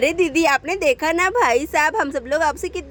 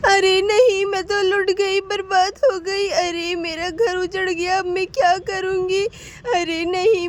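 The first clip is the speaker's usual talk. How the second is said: tearful wail over a lost home; wailing lament. Acted. Abandoned wife wailing on the road, tearful. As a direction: cry out in despair, voice breaking.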